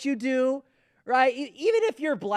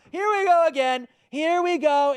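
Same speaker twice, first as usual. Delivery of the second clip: mock sing-song; 6 semitones higher, 4 dB louder than usual. Mocking the repetitive NPC talk.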